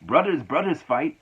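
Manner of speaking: imitating Eddie. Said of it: "he was like, Dude".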